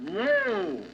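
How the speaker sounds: high-pitched drawn-out whoa; reining in a horse. Acted. Paul Revere stops his galloping horse at the third house, high drawn-out call.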